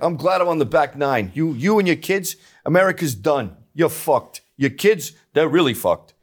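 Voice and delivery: lightly voiced old club member; a hint of a grumbling old dude. Old Knights of Columbus men to the young, lightly put-on old-man voice. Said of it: "it's all old dudes".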